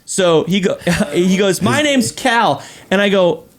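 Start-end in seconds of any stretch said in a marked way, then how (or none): 1.6-2.6 higher, slow mock child voice; indignant little kid. Six-year-old telling the dad his name, slow and offended. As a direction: draw it out like an affronted small boy.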